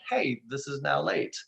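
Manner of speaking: lovingly intoned. Acted. Software lovingly reminding a client something is late, gentle and slow. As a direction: intone it lovingly, like a kind machine. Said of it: "It'll just lovingly intone".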